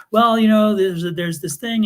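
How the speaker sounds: imitated nice talking. Principal placating an angry mom, talking nicely. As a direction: imitate an official smoothing things over. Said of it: "the principal starts talking nicely".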